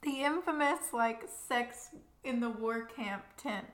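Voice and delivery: talking around a muffin; speaking with food in mouth; mouth full. Real, not acted. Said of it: "I have a muffin in my mouth".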